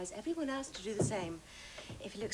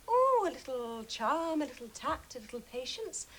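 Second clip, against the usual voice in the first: coy. Acted. Coy explanation of her success.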